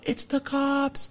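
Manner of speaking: high, slow, drawn-out; storyteller's dramatic beat; dramatic reveal. Acted. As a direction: land the punchline slowly.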